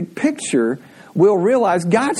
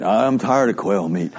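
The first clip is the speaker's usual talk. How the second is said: mock whiny complaint; 9 semitones lower than usual. Israelites complain about quail.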